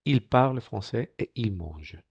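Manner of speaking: slow IL PARLE FRANÇAIS ET IL MANGE, finals dropped; careful, slow demo of "il parle français"; silent French endings. Shown as a demonstration. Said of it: "tampoco se pronuncia".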